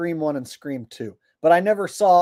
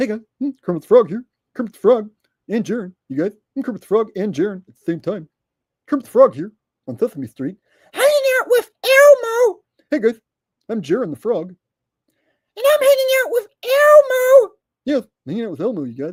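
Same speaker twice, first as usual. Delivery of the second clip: high and loud with a swinging delivery; 6 semitones higher, 6 dB louder than usual. Mid-video, turning Jaren into a talking-frog bit: Kermit the Frog voice. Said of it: "I like turned Jaren into Kermit the Frog".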